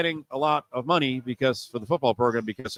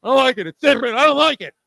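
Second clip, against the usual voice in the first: much higher and louder mock whine; whiny listener; 11 semitones higher, 8 dB louder than usual. Host mocks listeners whining about the new college football, high loud whine. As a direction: mimic a fan who hates change, whining high. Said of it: "you're like".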